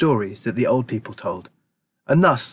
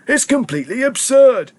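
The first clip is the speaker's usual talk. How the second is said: put-on fond old grandpa; 8 semitones higher, 4 dB louder than usual. A narrator's reading. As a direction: savour the words like an old grandpa. Grandpa Joe voiced.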